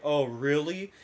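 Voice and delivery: understated sarcastic reply; dry, lightly mocking question; retold sarcasm. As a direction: toss it off with mild sarcasm. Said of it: "I give my sarcastic answer".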